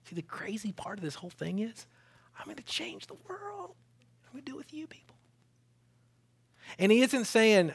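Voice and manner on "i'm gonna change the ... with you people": voicing Jesus. Preacher voicing Jesus, high, hushed.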